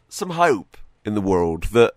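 ordinary talk, nothing marked

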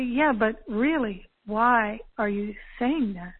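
slow, deliberate retold question; earnest questioning. Speaker challenges a teasing friend, slow earnest questioning. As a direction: press for a real answer, word by word. She presses friend for honest answer.

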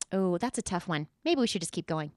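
low, hushed aside; softly, as if hoping to skip it; mock reluctance. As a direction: pretend to back away from the topic, quietly. Jokingly shying from selfishness topic.

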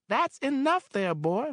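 motherly landlady; Mary, older woman. Acted. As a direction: speak as kindly Mary. Mary's voice.

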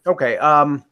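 talking while crunching ice; chewing ice. Real, not acted. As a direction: mouth full of ice, chewing. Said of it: "as I'm chewing ice".

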